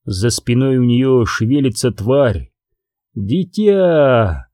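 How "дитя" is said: thin reedy voice. Acted. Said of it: "дребезжащим голосом".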